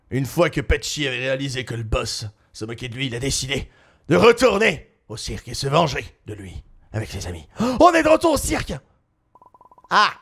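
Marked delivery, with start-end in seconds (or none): 0.1-7.5 low, quiet narrator voice; story narration. A narrator's reading. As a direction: tell it like a storyteller. Narrates story between scenes.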